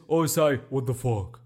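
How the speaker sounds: lightly mock a deep voice; slightly put-on deep voice, as a tease; teasing deep-voice imitation. Schoolmates teasing the podcaster, lightly imitated deep voice. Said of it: "used to always tease my deep voice".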